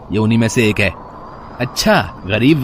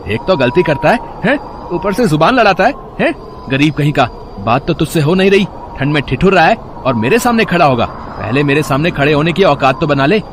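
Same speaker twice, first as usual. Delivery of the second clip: scornful scolding; 2 semitones higher than usual. Acted. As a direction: put him in his place. Bully scolding the vendor.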